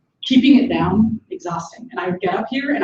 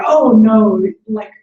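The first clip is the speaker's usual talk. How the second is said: alarmed friend; 3 semitones higher, 4 dB louder than usual. Retold or imitated. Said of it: "she was like".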